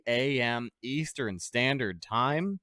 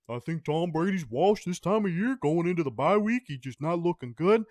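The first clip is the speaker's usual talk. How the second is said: a lightly voiced, somewhat higher mock TV pundit; Skip impression; 4 semitones higher than usual. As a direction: do a half-hearted Skip Bayless hot take. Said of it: "I can't do a good Skip voice".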